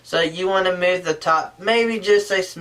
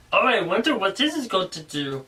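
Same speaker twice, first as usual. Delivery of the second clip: curious voice. Shown as a demonstration. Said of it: "Do you want him to be curious".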